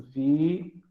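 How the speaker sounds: Vi-u-va split into three separate syllables. Shown as a demonstration. Teacher showing the hiatus in viúva, syllable by syllable. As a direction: say Vi-u-va as vi, u, va, spaced. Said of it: "mesma coisa".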